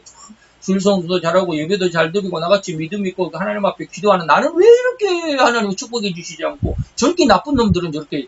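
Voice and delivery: acted-out grumble to God, rising then dropping away; why-me lament, lightly acted; self-pitying complaint. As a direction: imitate a believer questioning God, swelling on the 왜. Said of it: "굉장히 자괴감을 갖습니다".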